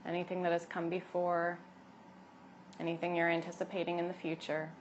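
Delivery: calm, unhurried yoga teacher voice; guided meditation. Acted. Yoga teacher settling expectant mothers into breath, guided meditation. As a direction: guide them gently inward, leaving long pauses.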